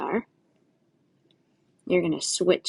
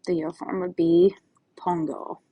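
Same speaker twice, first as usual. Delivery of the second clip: whisper. Shown as a demonstration. Teacher reveals the yo form.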